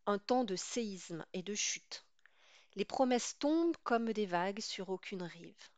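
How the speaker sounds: measured recitation, pausing after each line; poem reading. Acted. Teacher reading a poem to students, measured recitation. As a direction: read the poem line by line, unhurried.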